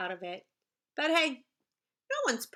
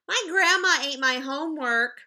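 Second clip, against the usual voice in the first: put-on whiny kid excuse; 7 dB louder than usual. Kids' excuse acted in story.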